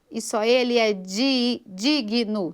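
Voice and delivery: "digno" as DI, then GUI-NO, breaking after the stressed DI; wrong syllable split. Shown as a demonstration. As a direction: add a vowel after the G in "digno". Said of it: "Ao invés de usar digno". ("digno" quebrado como DI-GUI-NO)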